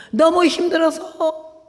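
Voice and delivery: high, drawn-out lament; anguished emphasis. Retold or imitated. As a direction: stretch it out as worn-out complaint. Recounting crushing hardship of marriage. (힘겨움을 길게 늘여 높게 호소)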